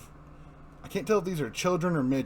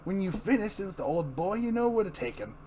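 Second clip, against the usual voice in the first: villain taunt; 5 semitones higher than usual. Acted. Joker voice taunting Gordon.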